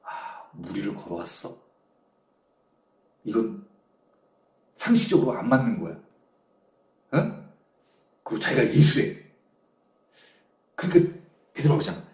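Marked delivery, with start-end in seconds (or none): 0.0-6.0 low, hushed disbelief; soft, low retold doubt. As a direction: act out sceptical musing under the breath. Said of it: "베드로가 의심을 하는 거야".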